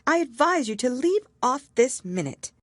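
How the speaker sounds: put-on high, sharp self-scolding girl. A narrator's reading. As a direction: snap at yourself to stop crying. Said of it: "rather sharply".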